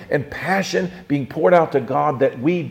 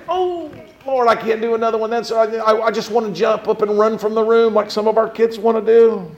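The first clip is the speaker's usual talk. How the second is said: higher-pitched mild pleading; mock dread; 5 semitones higher than usual. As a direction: act a child dreading the next whack. Acting a child dreading another whack.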